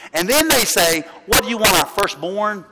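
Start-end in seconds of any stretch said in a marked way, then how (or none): 1.3-2.7 mock-incredulous gripe, speeding up at the end; lightly acted indignation; grumbling complaint. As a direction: imitate a fed-up people making an outrageous offer. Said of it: "Israel would grumble and complain".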